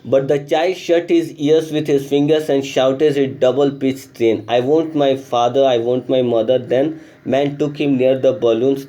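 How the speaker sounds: slow, careful reading of the story text. A narrator's reading. Teacher reading the English lesson aloud, slow and clear. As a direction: read the passage slowly for the class.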